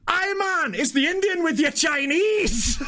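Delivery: high, drawn-out mock Glaswegian shout; full Glaswegian accent. Delivery driver teasing a confused customer, full Glaswegian accent. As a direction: boom it out in broad imitated Glaswegian. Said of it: "He just had the full Ouija accent".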